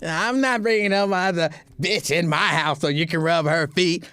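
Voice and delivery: put-on voice of an objecting partner; lightly mock your partner's protest; complaining partner. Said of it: "I don't know why I'm doing this".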